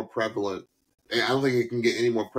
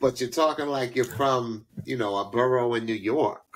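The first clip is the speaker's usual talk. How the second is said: light New York borough accent. Shown as a demonstration. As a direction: explain it with a New York lilt. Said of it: "as I'm doing right now".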